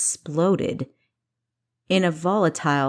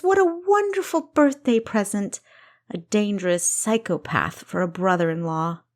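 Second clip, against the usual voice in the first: high, mock-cheerful then flat; bitter sarcasm; 4 semitones higher than usual. Kessa mocking her sister's dangerous fiancé, sarcastic. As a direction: sneer through fake delight.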